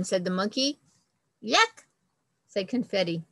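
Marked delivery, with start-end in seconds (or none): 1.4-1.8 disgusted yuck. Acted. Confetti rejects nuts.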